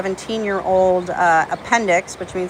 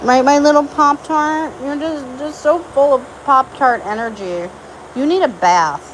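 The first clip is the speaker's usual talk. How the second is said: higher, louder, slow doting voice; doting pet talk; 5 semitones higher, 3 dB louder than usual. Real, not acted. Owner gushing over her horse Poppy Pop-Tart, slow doting coo.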